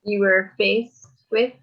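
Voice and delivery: slow, deliberate repeat for the listener; repeated slowly. Real, not acted. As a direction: spell the question out slowly for her. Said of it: "Sorry, I missed the end of it".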